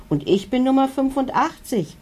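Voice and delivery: high little dino voice calling out the number; lightly voiced tiny dinosaur, eager; another little dino calling. A narrator's reading. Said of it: "ruft ein anderer Dino".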